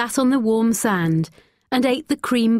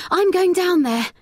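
put-on determined girl; 11 semitones higher than usual. A narrator's reading. Brave girl deciding to climb.

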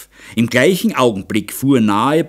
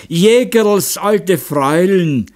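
surprised cry; 7 semitones higher, 4 dB louder, slower than usual. A narrator's reading. Hunter finds the whimpering aunt.

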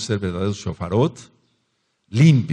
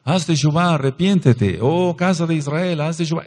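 higher, ringing preacher's call; calling out to Israel; 6 semitones higher than usual. Shown as a demonstration. Preacher calling the people to repentance, ringing call. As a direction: cry out to the whole house. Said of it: "cuando yo digo".

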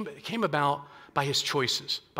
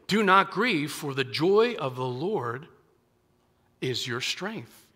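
slow comforting close; slower than usual. Retold or imitated. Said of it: "He says".

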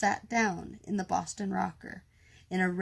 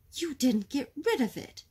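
raised, higher-pitched shouted complaint; 6 semitones higher, 4 dB louder than usual. A narrator's reading. Mister Fizzle, startled at the cradle, shouting. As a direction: exclaim it in a storybook shout. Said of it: "he shouted".

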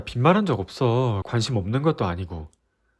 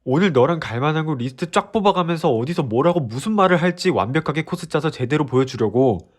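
heated confession; 4 semitones higher, 3 dB louder than usual. Acted. Boyfriend continuing heated confession.

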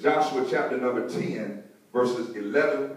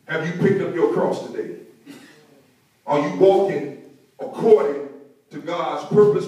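emphatic preaching in punched phrases; 4 semitones higher than usual. Real, not acted. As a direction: drive each phrase home to the congregation. Preaching with force to congregation.

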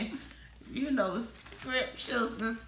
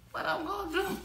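What I'm gonna do? pitched well higher; excited higher repeat of What I'm gonna do?; higher and giddy; 8 semitones higher, faster than usual. Real, not acted. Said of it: "repeated with a higher pitch".

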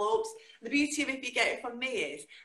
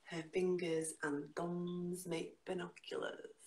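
slow, rhythmic spoken-word delivery with big pitch leaps; dramatic poetry reading with slow, stretched lines; performance poetry; much slower than usual. Acted. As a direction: perform the poem to a live room. Performs her poem live.

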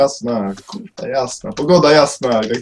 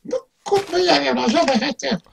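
squeaky silly voice; 12 semitones higher, 3 dB quieter than usual. Acted.

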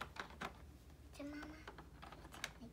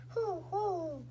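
owl hoot; 3 semitones higher, 5 dB louder than usual. Pretend. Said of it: "And the owl say".

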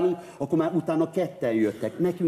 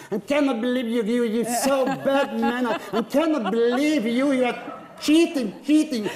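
put-on Hungarian accent in English; 9 semitones higher than usual. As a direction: overact the line in broken English. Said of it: "ez még mindig magyar akcentus".

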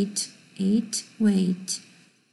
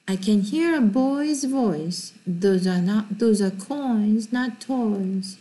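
very slow, careful English reading; slow model sentence; much slower than usual. Shown as a demonstration. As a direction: say it slowly for repetition. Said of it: "라고 해서 했습니다".

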